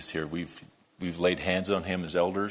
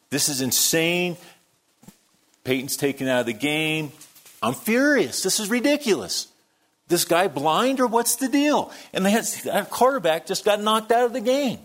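much higher and louder, near shouting; hammed-up furious fan; 9 semitones higher, 4 dB louder than usual. Preacher reenacting his rant at James's game party, furious mock shouting. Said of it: "I am getting a little animated".

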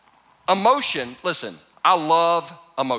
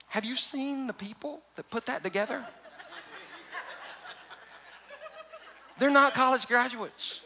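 laughing through the words, pitch climbing; can barely hold the laugh back; laughing while talking; 7 semitones higher, 4 dB quieter than usual. Real, not acted. Father mocking the ride builders, laughing. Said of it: "listen, I'm not crying".

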